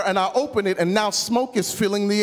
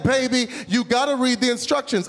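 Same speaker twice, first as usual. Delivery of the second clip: higher-pitched imitation of a wife lecturing; preaching wife; 4 semitones higher than usual. Wife to husband from the bedroom, mock preaching. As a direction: preach lightly at your husband, voice lifted. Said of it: "she started preaching to me from the bedroom".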